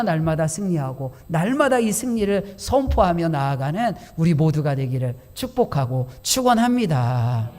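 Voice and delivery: ordinary talk, nothing marked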